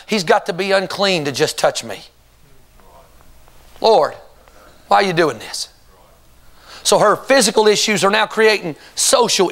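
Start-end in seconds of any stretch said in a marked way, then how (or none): 3.8-5.7 anguished prayer. Acted. The woman's imagined prayer.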